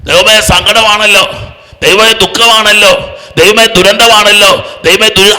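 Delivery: slow, drawn-out complaining to God; mock lament. Preacher mimicking a believer moaning to God, mock lament. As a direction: drag out each woe as a mimicked complaint.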